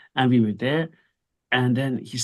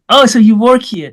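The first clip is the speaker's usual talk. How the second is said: surprised; 8 semitones higher, 10 dB louder than usual. Retold or imitated. Retold surprised question to waiter.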